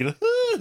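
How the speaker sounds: high mock gasp of a revived kid; imitated gasp for breath. Podcaster imitating the rescued kid coming up, mock gasp. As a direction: gasp like surfacing from water. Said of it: "the kid's up breathing like".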